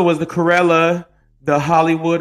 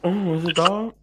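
whispering; 6 dB quieter than usual. Real, not acted. Mock surprise at the dog.

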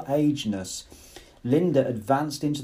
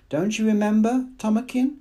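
higher, anxious repeated plea; trembling plea; 9 semitones higher than usual. A narrator's reading. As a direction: beg him, losing confidence. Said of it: "in a voice that trembled".

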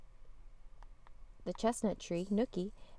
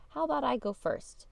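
put-on eager child; 7 semitones higher, 4 dB louder than usual. Eager child volunteering in club.

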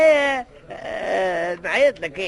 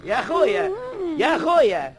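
calls that grow louder each time, ending in a loud command; building wake-up call; 3 semitones higher, 4 dB louder, slower than usual. Acted. Old man calling louder and louder to wake a sleeper. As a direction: shout him awake, louder with every call. Waking a man asleep on bench.

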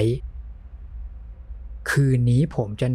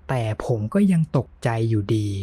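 ordinary delivery, nothing marked

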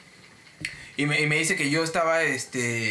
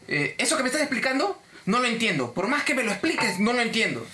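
mildly exasperated, higher-pitched complaint; irritated client; 5 semitones higher than usual. Retold or imitated. Clienta quejándose al agente de atención, irritada.

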